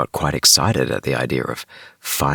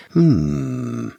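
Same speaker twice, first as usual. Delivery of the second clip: detective hmm; 2 semitones lower than usual. Retold or imitated. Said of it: "getting into her detective mode".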